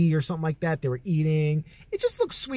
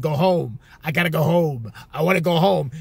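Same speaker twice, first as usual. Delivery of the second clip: mildly raised, exasperated imitation; imitated yelling; 4 dB louder than usual. Uncle sending an old customer away, imitated yelling. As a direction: bark it like the fed-up uncle, half strength. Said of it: "He would yell at her".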